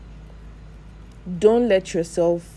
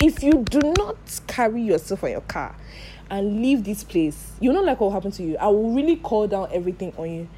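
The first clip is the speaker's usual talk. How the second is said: retold angry warning, raised at the start; angry shouting; 2 semitones higher than usual. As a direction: scold him with a threat, half-shouted. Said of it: "I started shouting".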